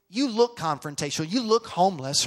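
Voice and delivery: mock blunt retort. Wife's blunt retort, retold.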